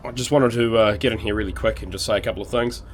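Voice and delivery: hoarse from a cold; rough, croaky throat. Real, not acted. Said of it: "apologies for the croaky voice".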